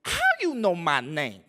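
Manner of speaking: lightly voiced little kid, slow; a small child puzzled, slowed down; a three-year-old asking his dad, lightly voiced; toddler voice. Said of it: "I'd be like".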